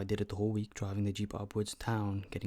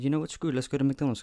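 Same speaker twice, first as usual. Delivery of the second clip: excited; 5 semitones higher, 5 dB louder, faster than usual. Retold or imitated. Deciding on a whim to go.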